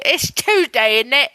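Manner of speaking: lightly put-on British catchphrase; British accent. Shown as a demonstration. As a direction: settle into an understated British accent. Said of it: "to get that in".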